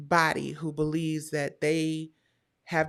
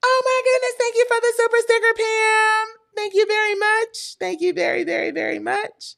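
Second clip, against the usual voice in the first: high, loud gushing thanks to a generous viewer; excited thanks; 7 dB louder than usual. Real, not acted. Streamer gushing to a viewer over a super sticker, high and loud. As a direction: squeal with delight.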